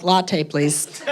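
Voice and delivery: put-on camp order, a bit low; flamboyant gay guy. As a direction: copy the barista's flamboyant manner. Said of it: "very flamboyant gay guy".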